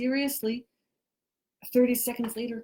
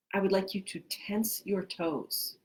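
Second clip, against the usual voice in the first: measured instructions with long pauses; guided relaxation. Real, not acted. Teacher leading listeners to tense and relax, guided relaxation. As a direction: give each cue, then leave silence to follow it.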